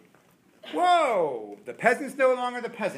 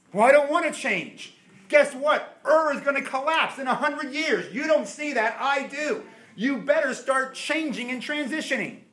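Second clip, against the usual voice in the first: loud, higher, insistent voice; stubborn reply; 9 semitones higher, 4 dB louder than usual. Acted. Preacher voicing a back-and-forth with God, loud and insistent. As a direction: push it hard, louder and higher.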